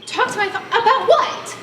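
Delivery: high, laughing and incredulous. Real, not acted. Sally laughing at Matt's plan to see her father. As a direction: laugh it out, then ask high.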